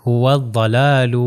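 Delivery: هو الضلال slowly as "huwad-dalaalu"; هو الضلال recited slowly, tongue side on upper molars; correct heavy daad. Shown as a demonstration. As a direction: draw out هو الضلال with a thick doubled d. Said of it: "pronunciation ہو جائے گی".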